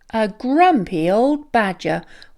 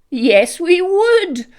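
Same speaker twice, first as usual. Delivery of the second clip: lightly voiced ram; 8 semitones higher, 4 dB louder than usual. A narrator's reading. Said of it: "replied Ram".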